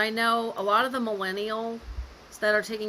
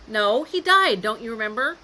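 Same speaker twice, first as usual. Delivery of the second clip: snarky; 6 dB louder than usual. Retold or imitated. Imitating how not to tell mom dad died, snarky. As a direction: correct her with exasperated snark. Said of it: "in that snarky tone of voice".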